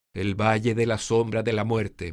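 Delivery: low, somber valley of death line. Shown as a demonstration. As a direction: drop the voice for the shadow of death. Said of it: "muy bajo".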